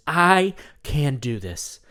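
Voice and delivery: slow, deliberate self-affirmation; calm mantra, slowly. Shown as a demonstration. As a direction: say it like you believe it. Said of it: "Say it with Marty".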